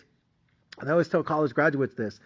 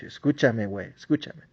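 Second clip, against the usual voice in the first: soothing. Retold or imitated. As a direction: hush them gently like a crying kid. Comforting the crying graduate.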